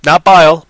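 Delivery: "Not bile", punched as a correction; correcting a word. Shown as a demonstration. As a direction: reject the word "bile" firmly. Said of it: "Well, that's what I said".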